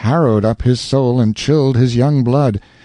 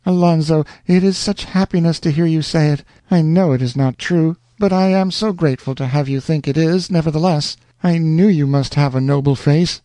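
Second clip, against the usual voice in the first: put-on tender young woman; 4 semitones higher than usual. Rosanna answers her lover.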